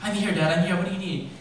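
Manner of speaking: high, loud, hurried-sounding answer; eager reporting in. Retold or imitated. Son arriving at dad's count, urgent high reply. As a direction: report for duty urgently, pitch up. Acting himself running to impatient dad.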